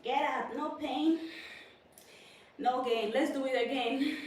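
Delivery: loud coach-style commands to herself; self pep talk. Real, not acted. Pushing herself through the next set, loud encouragement. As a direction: bark it like your own coach. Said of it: "I'm giving myself motivation".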